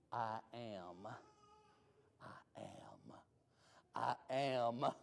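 quiet, solemn I am; solemn repeated I am. Acted. Jesus speaking the divine name, solemn. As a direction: intone it softly. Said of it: "terminology that any good Jew".

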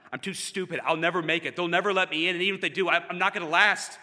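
mildly agitated run of doubts; a touch of mounting panic, retold; retold self-doubt. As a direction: pile up the worries, rising as you go. Voicing his own piled-up doubts.

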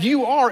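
"you are" lifted high, the weight on "are"; stress on "you are". Shown as a demonstration. Pastor showing the congregation the emphasis on "you are". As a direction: pitch "you are" up to mark the emphatic Greek. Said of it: "that's in the emphatic position".

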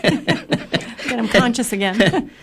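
slow, chuckling through the words; amused slow aside; laughing. Real, not acted. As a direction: laugh it out as a joke. Joking about reviving fainted women.

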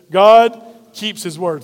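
God keeps his word said slowly, each word weighted, God stressed; slow congregational refrain. Shown as a demonstration. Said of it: "Say that with me today".

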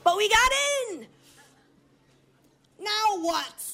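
giddy disbelief. Retold or imitated. Sneaking into the Colosseum.

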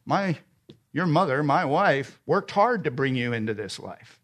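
put-on earnest parent explaining to a child; loving parent. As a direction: reason with your child, pitch easing down. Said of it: "as a parent, you say to your children".

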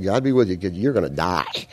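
a blessing that sinks into a quiet threat; mock blessing turned threat. Preacher voicing King Saul's grim farewell, mock blessing turned threat. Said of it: "that's kinda his attitude".

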